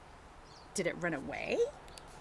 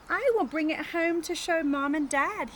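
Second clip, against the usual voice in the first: put-on higher, louder eager kid voice; Pete's voice; 7 semitones higher, 6 dB louder than usual. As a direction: say it like a kid excited to bring it home. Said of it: "he says".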